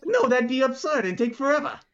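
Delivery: high, squeaky little retort; small mouse figure. Acted. Mouse scoffing at the idea, high little voice. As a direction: dismiss it in a tiny mouse voice.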